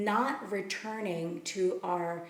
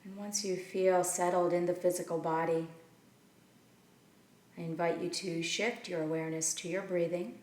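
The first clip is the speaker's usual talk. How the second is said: measured meditation guidance with long pauses between phrases; unhurried, leave room to breathe after each instruction; guided meditation. Acted. Teacher settling listeners into their seats and breath, guided meditation.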